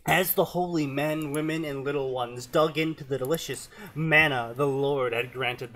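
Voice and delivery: reading aloud in a Southern twang; Southern story narration. Acted.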